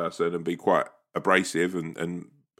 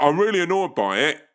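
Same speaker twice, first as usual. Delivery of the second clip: mock annoyance; 8 semitones higher, 4 dB louder than usual. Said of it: "you're like".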